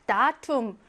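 다툼 with the stress on 다; accent the 다 of 다툼, let 툼 fall away; first-syllable stress. Shown as a demonstration. Teacher reading out an exam word, 다툼 stressed on 다. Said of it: "얘 일 강세입니다".

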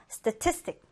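statistic with the stress on TIS; second-syllable stress. Shown as a demonstration. Teacher modelling statistic for learners, second-syllable stress. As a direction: put the weight on the middle syllable of statistic. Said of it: "두 번째 음절의 강세를 두고요".

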